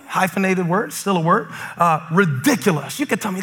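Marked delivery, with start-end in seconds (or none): none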